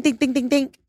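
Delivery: high, rapid-fire dinging; string of high little dings; imitated alert dings. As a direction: mimic a phone alert in a high voice.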